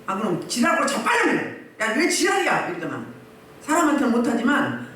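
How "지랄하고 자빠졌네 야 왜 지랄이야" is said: higher-pitched mock telling-off; acted scornful rebuke; scolding a demon. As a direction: curse out an evil spirit, pitched up. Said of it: "제가 귀신한테는".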